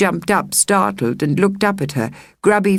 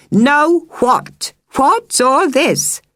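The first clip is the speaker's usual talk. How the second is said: high, loud, demanding; indignant woman; 11 semitones higher, 3 dB louder, much slower than usual. Acted. Megan rushes out to scold the children, high and loud. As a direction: burst out demanding answers.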